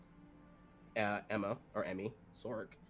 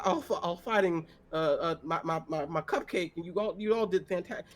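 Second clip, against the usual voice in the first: higher, rushed, stammering begging; pleading old farmer; 6 semitones higher than usual. Acted. Old farmer begging the party to save his daughter, frantic. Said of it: "And he goes".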